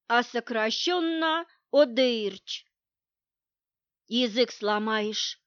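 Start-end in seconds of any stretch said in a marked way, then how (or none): 4.1-5.4 grumbling. Acted. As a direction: grumble it out, a touch annoyed. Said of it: "проворчала Настя".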